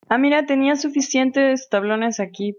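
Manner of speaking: a sudden "oh look" as she spots the planks; surprised. Real, not acted.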